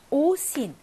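오신 with a long, stressed first 오. Shown as a demonstration. Teacher marking stress for students, 오신 stressed on 오. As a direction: lean on the 오 in 오신. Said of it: "강세 있고요".

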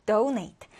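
donate with the stress on DO; first-syllable stress. Shown as a demonstration. Teacher modelling donate for learners, first-syllable stress. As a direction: lean on the first syllable of donate, falling after it. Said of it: "첫 음절의 강세 두고요".

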